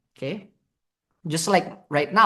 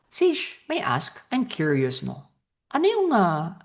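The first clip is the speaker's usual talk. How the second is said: curious tone; 2 semitones higher, 3 dB quieter than usual. Shown as a demonstration. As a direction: sound like you really want to know. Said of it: "the curiosity tone".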